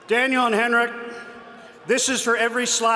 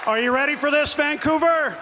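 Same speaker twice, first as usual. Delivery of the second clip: calling out to crowd; 5 semitones higher than usual. Real, not acted. Rallying the arena crowd.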